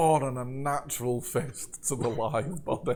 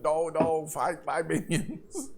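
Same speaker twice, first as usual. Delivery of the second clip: raised monster voice, last words drawn out; hammed-up monster protest, pitched up and stretched; monster's mock scream; 3 semitones higher, slower than usual. Monster screaming back at the acolyte, mock scream. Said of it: "The monster screams back".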